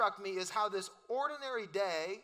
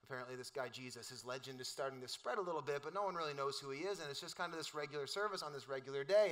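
muttered congregation; 5 semitones lower, 6 dB quieter than usual. Retold or imitated. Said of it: "they're like".

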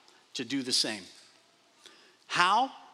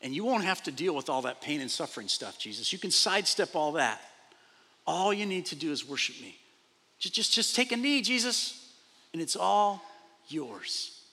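lightly voiced Satan. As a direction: tempt him gently, then fade. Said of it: "he's telling Jesus".

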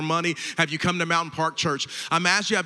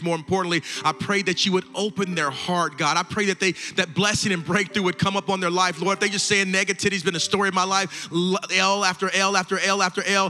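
building prayer. Real, not acted. Pastor praying over those with raised hands, building earnest prayer. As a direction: pray over them, building steadily with each plea.

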